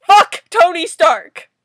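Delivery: slow, very loud shout; high, drawn-out angry cursing; furious curse. Real, not acted. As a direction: yell each word in disgust. Cursing the comic character.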